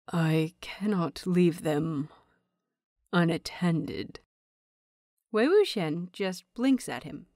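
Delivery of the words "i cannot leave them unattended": slow, lightly choked-back bitterness; bitter, choked. Acted. Lan Qiren admitting to Wei Wuxian he needs help, mildly bitter and choked. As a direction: drag the words out like they hurt to admit. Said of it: "the next sentence sounds bitter, choked".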